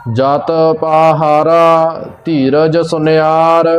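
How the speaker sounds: slow, measured recitation on a level tone; scripture recitation. Acted. Teacher reciting Gurbani for learners, slow measured recitation. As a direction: recite line by line, drawing out the vowels.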